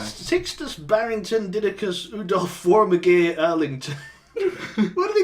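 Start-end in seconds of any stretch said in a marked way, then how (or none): 0.0-4.0 put-on slow, lightly posh English accent. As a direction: draw the names out in a posh accent. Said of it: "the most posh voice you can".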